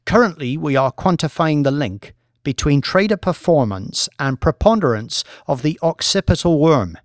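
a lightly voiced academic lecturer, measured and assured; professor presenting. Professor lecturing the traders, calm and assured. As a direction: present the research to the bored bankers.

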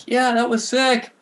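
high, slow, put-on stoked voice; impressed teen. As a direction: drawl it like an awed sixteen-year-old. Teen self reacting to a trick.

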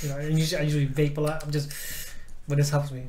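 words around a chewed straw; chewing a straw. Real, not acted. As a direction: talk while gnawing a straw. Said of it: "why I'm chewing a straw".

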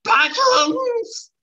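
very high, slow wailing cry; high drawn-out cartoon shout; character cry. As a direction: stretch it out in a high wail. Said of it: "That's so good".

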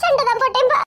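teary admission through laughing sobs; crying. Acted. Daughter tearfully admitting the fight to her father, crying. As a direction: confess it while half crying. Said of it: "இதுக்கெல்லாம் யாராவது அழுவாவளா".

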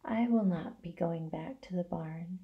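soft, hushed near-whisper; barely audible. A narrator's reading. Dying spider tells pig she won't return, barely audible. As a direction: say it faintly, almost too weak to hear. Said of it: "Wilbur could hardly hear the words".

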